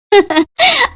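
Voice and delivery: short, high amused laugh; amused chuckle. Acted. Teacher amused by parent's garbled doctor word, high chuckle.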